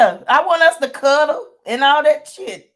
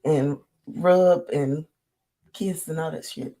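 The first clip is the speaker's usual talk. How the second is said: soft cuddly voice; 7 semitones lower, 6 dB quieter than usual. Pretend. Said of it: "you talking like this".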